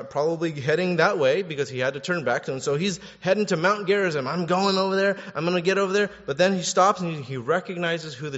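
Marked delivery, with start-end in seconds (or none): 4.3-6.1 raised, jazzed-up voice; eager determination. Acted. Samaritan leper heads to Gerizim, eager and raised. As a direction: announce it as you rush off.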